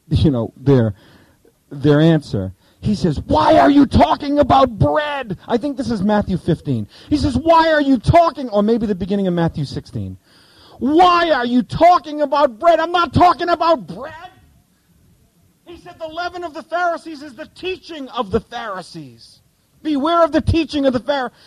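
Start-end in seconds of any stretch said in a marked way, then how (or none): 3.2-5.4 Jesus voice. Retold or imitated. Jesus voiced in retold scene. 7.4-8.5 Jesus voice. Retold or imitated. Jesus voiced in retold scene. 10.8-21.3 Jesus voice. Retold or imitated. Jesus voiced in retold scene.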